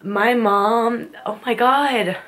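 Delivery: real tears rising as she starts to speak; choked up. Real, not acted. Creator answering a question about her mom, choked up. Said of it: "I just, like, got super choked up".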